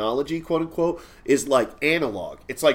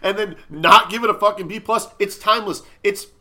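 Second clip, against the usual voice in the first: raised, high-pitched comic rant, building louder; mock outrage; 6 semitones higher, 6 dB louder than usual. Podcast host defending the Goonies grade, mock outrage. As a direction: build an indignant tirade to a loud peak.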